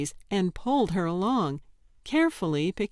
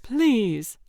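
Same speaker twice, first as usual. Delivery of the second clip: pleading; 4 semitones higher, 4 dB louder than usual. Acted. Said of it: "she implored once more".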